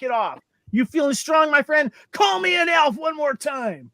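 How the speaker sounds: hammed-up angry elf threat. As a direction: puff up like a tiny furious tough guy. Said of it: "He's an angry elf".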